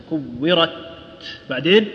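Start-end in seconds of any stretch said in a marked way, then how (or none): 0.1-0.7 "كورت" with final ت shut, then breath set free; teaching demo of "كورت" with delayed puff on ت; held, then released ت. Shown as a demonstration. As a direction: stop the sound at the end of "كورت", then release the air. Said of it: "أطلقت سراح النفس".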